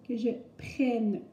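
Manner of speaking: slow "prenne" with a drawn-out open è; deliberate, slow "prenne", vowel as in "est". Shown as a demonstration. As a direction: stretch "prenne" to show the è. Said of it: "on prononce le E de prenne".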